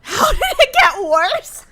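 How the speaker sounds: laughing through the words, slowed. Real, not acted. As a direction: crack up at your own failure. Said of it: "laughing at her own bad take".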